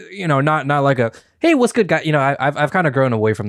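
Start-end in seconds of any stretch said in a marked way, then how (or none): 1.4-2.0 higher mock vlogger greeting; scripted vlog greeting. Podcaster mocking unscripted openers, mock vlogger greeting. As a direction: toss off a put-on vlog opener. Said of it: "it's kind of like this scripted type of".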